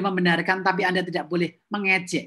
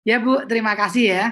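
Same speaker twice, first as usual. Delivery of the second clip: polite thanks; 3 dB louder than usual. Shown as a demonstration. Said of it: "kalau saya ngomong".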